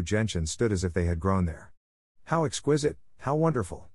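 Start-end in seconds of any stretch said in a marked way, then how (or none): 2.2-3.9 bright, rising exclamations of delight over the flowers. A narrator's reading. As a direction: gasp out your delight, pitched up. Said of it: "she exclaimed".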